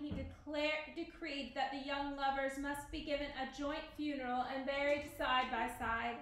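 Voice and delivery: measured read-aloud storyteller voice; story narration. A narrator's reading. Teacher reading Romeo and Juliet to the class, story narration.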